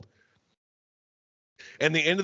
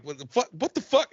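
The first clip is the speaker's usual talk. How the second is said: incredulous; 5 semitones higher than usual. Retold or imitated. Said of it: "they're like".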